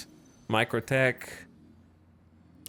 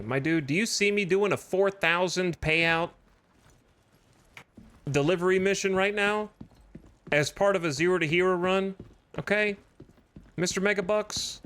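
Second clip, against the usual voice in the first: exasperated; 6 semitones higher than usual. Real, not acted. Exasperated rant at game fine.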